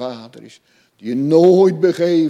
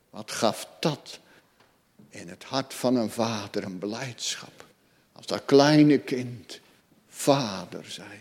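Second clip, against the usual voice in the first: soft, tender whisper; 3 semitones lower, 7 dB quieter than usual. Acted. Preacher recalling a father's joy at his child's first word, whispered. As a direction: hush it like a secret joy.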